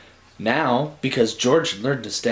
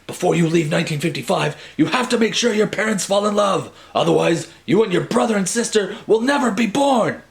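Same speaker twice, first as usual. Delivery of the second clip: fast, higher, louder anxious Doc; 7 semitones higher, 3 dB louder than usual. Acted. Doc warning Marty about his parents, higher and urgent. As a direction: warn him urgently as the wild scientist. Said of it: "Doc says".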